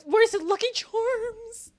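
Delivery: joking about the stereotype; mock demanding. Real, not acted. Teasing the Irish character about Lucky Charms.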